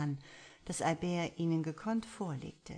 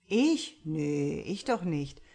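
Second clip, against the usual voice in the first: mock innocent; 7 dB louder, slower than usual. A narrator's reading. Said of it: "frotzelte Anton wieder".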